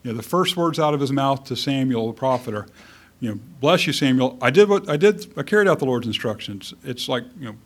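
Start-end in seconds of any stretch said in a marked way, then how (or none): 3.6-6.7 hurried, defensive burst of self-justification. Acted. Saul greeting Samuel the prophet, defensive. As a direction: blurt it out like someone covering himself. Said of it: "a little bit on the defensive".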